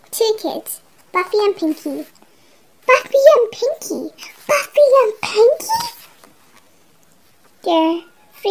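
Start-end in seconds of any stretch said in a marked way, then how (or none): 2.9-5.8 higher, echoing the odd names in disbelief; amused disbelief. Real, not acted. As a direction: repeat the funny names, incredulous.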